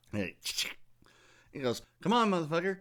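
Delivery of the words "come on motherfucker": mock gunman taunt. Gunman taunting the neighbor's son.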